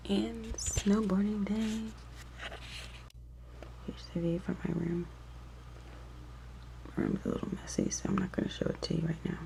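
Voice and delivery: hushed, soft tour of the house; real whispering. Real, not acted. Vlogger showing viewers round while everybody's asleep, whispering. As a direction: keep it down for the sleepers. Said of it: "I'm whispering because everybody's still asleep".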